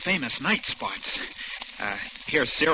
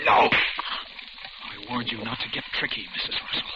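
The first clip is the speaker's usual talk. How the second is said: menacing warning; 2 semitones lower than usual. Acted. Captor refuses, menacing warning.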